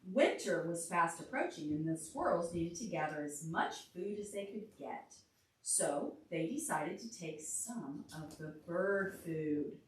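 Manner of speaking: lively storybook reading; reading to a child. A narrator's reading. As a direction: read it aloud for a little listener. Reads picture book to child.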